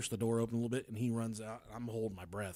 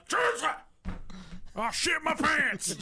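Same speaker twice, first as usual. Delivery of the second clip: angry mock scream; 11 semitones higher, 3 dB louder than usual. Husband yelling at wife through door, hammed-up angry scream. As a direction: scream it like an exasperated man stuck inside. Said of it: "Screamed, dude".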